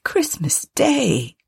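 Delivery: high, slow, gentle reminder; gently pleading husband; mild answer. A narrator's reading. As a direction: soothe her with a drawn-out, high plea. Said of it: "was Bob's mild answer".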